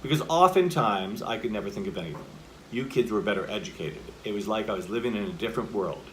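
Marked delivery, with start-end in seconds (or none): 1.2-6.0 terse full-stopped sentences, falling on ANYTHING, EDUCATED and WORLD; short statements. Shown as a demonstration. Coach showing a monologue's opening, short settled statements. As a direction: set down each sentence as its own finished statement. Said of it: "These are short statements".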